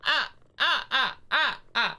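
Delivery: put-on high crying baby-like whimpers; baby whimpering. The speaker's Daisy character whimpering at gunpoint, high baby whimpers. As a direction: stammer like a frightened little baby. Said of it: "little baby going".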